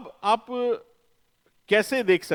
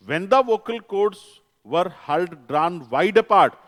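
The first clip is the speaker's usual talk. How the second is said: slow dictation; 3 semitones higher, 7 dB louder, much slower than usual. Shown as a demonstration. Teacher dictating definition in English.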